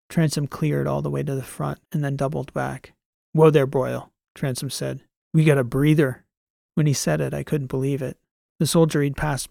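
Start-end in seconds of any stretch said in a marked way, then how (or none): 3.3-4.1 rough wary call; gruff soldier. Acted. Transom finds a survivor. 5.3-6.2 rough soldier announcing; gruff soldier. Acted. Transom finds a survivor.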